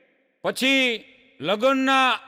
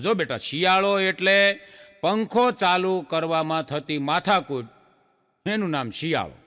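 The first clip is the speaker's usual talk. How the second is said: father voice; 3 semitones lower than usual. Acted. Father answers son in joke.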